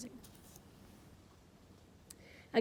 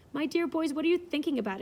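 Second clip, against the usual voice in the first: higher, louder alarmed mother; exclaiming; 6 semitones higher, 6 dB louder than usual. A narrator's reading. Mother scolding her sons, higher and louder in alarm. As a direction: protest in shock at the boys. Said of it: "exclaimed Missus Lynn".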